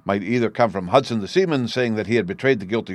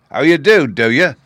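higher, much louder mocking snarl; 5 semitones higher, 8 dB louder than usual. A narrator's reading. Hudson snarling back at Victor, loud and mocking. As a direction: sneer it back hard and loud. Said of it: "he snarls".

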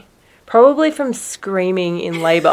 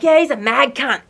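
imitated Australian bloke; 5 semitones higher than usual. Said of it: "They're like".

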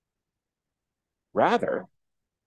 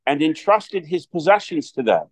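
gospel reading; 2 semitones higher than usual. Acted. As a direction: proclaim it from the pulpit.

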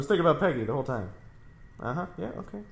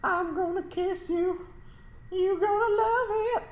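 mock seductive voice. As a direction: ham up a flirty come-on. Teasing seductive line, slow.

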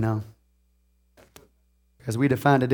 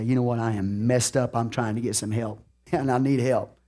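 shamed admission; 6 semitones lower, 8 dB quieter than usual. Retold or imitated. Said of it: "bow my head in shame".

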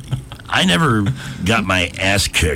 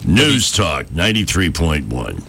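station ID; 3 semitones lower than usual. Shown as a demonstration. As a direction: say the name like a station ID. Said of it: "now our name".

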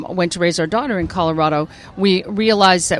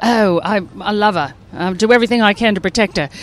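mock Australian accent; lightly hammed-up earnest Australian accent; Crocodile Hunter. Actress imitating Australian TV talk, mock Australian accent. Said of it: "we know from the Crocodile Hunter".

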